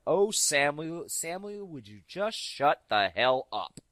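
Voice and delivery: slow, drawn-out mock scolding; exasperated mother. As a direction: drag out his name like a tired mom. Mother scolding son from back.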